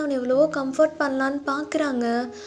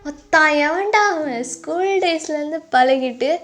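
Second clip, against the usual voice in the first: put-on drunken rambling; 5 dB louder than usual. Drunk lover raging to his friend about an unknown rival, hurt. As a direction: build from longing to jealous outrage. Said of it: "நீ குடிச்சிட்டு ரொம்ப பேசுறடா".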